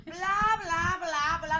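loud blah-blah imitation; high, loud parrot chatter; parrot's nonstop blabbing. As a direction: mimic a parrot drowning someone out. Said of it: "no dejaba hablar la señora".

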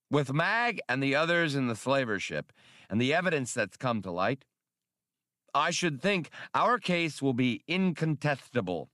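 satisfied. Acted. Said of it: "Spray said with satisfaction".

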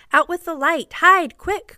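high, loud urgent command; urgent cry. A narrator's reading. John taking command as the light goes out, urgent shout. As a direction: shout the order to hide. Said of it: "cried John".

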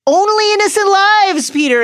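sharp, high angry outburst; furious retort. A narrator's reading. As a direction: fling it back at him in fury. Black rebuking Peter.

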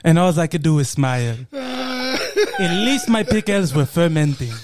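slow, put-on African accent, comically resigned. Pickle seller consoling himself, African accent. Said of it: "doing that accent".

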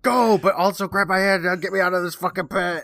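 high-pitched comic pleading; mock desperation. Co-host as uncle in the pit, mock desperate plea. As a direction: play a doomed uncle begging for a hand. Uncle being dragged, begging rescue.

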